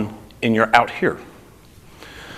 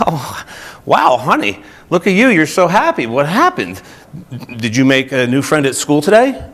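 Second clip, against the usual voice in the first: doting mom. Retold or imitated. Mother to her beaming little daughter, bright and doting. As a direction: gush over the child like a delighted mom. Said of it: "And her mom's like".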